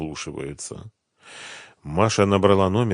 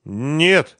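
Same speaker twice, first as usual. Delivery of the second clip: plain reading voice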